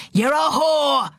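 high, slow shouted accusation; furious shout. A narrator's reading. Father raging at his silent daughter, furious shout. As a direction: shout it, stretching each word in rage. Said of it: "he shouted".

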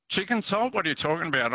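mock the mate who has never heard of it; baffled Brit. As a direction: soldier imitating his British mate's disbelief about chicken salt. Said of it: "my Brit mate was saying".

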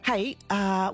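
normal talking voice

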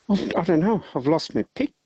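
high-pitched upset teddy bear wail; retold distress, voice jumping up high; mock tearful. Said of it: "And he's crying".

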